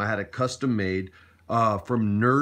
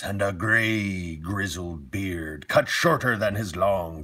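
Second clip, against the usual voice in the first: pirate voice; 2 semitones lower than usual. Acted. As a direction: read it like an old sea dog. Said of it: "I'll give you a pirate voice".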